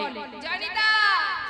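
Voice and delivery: slow, drawn-out teasing jai Nitai with জয় নিতাই stretched long; mocking greeting. Atheists teasing Nitai on the street, slow mocking drawl. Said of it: "অনেকে বলে".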